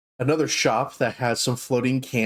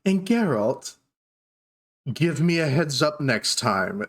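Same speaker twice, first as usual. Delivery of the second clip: much higher, gushing shopkeeper voice; dark elf shopkeeper greeting surprise customers, high and gushing; 4 semitones higher than usual. Acted. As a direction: coo at unexpected guests. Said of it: "and she goes".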